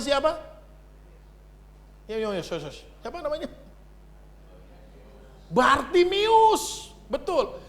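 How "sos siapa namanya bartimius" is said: usual speaking voice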